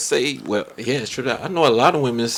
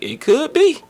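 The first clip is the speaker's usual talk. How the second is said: imitated woman's reply; 14 semitones higher, 3 dB louder than usual. Retells the woman's coy answer.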